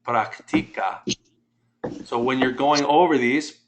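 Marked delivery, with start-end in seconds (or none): 0.1-1.0 practica with the middle "ti" stressed. Shown as a demonstration. Teacher urging correct pronunciation, practica stressed on TI. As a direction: say practica carefully as prac-TI-ca. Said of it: "pronounce these correctly".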